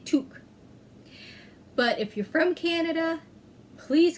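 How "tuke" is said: "toque" with a long oo, like "tuke"; long-oo pronunciation. Shown as a demonstration. Knitter picking her guess at Canadian usage, "toque" with long oo. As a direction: say "toque" to rhyme with "duke". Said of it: "I wanna say toque".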